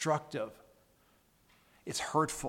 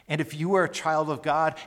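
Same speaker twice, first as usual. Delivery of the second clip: if punched, the line louder; stress on if; 6 dB louder than usual. Shown as a demonstration. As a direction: lean hard on the word if. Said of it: "I put the emphasis on the word if".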